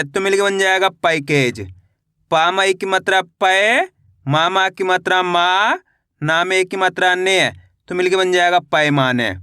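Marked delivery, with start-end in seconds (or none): 2.3-7.5 slow chant, last syllable stretched and rising; drawn-out, lilting matra drill; spelling drill recitation. Shown as a demonstration. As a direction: spell it out for pupils to repeat.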